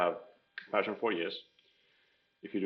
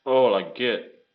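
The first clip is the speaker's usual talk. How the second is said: surprised; 3 semitones higher, 10 dB louder, much slower than usual. Real, not acted. Recognizing a painful tool.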